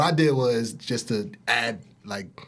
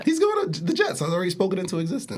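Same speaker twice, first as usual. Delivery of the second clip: much higher, fast confident claim; excited; 4 semitones higher, faster than usual. Real, not acted. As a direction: declare it like it's destiny. Confident fan prediction.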